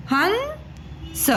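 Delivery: हंस stretched very slowly and high, nasal chandrabindu vowel; हंस, slow nasal demo; drawn-out हंस. Shown as a demonstration. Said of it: "तो इसको हम पढ़ेंगे हन".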